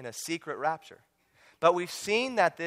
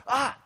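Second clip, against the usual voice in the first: mock startle shout; 9 semitones higher than usual. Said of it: "someone comes up and all of a sudden".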